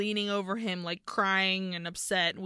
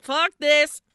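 loud, high burst of panic; a sudden panicked cry; panicked shout; 5 semitones higher, 10 dB louder than usual. Retold or imitated. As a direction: yell it as you bolt. Fleeing characters curse in panic.

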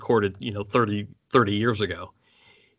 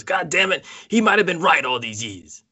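quoted exasperation; 6 semitones higher, 3 dB louder than usual. Retold or imitated. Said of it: "Bruce's line was".

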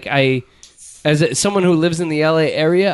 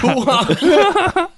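Al Pacino impression; 11 semitones higher than usual. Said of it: "that scent of a woman".

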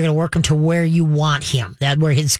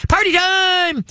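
much higher, squealy burst of hype; mock party excitement; 13 semitones higher, much slower than usual. Shown as a demonstration. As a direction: ham up the overexcited owner the dog shouldn't hear. Mock overexcited owner praising puppy.

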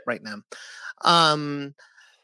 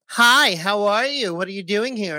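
imitating mother; 4 semitones higher than usual. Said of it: "went up to them and was like".

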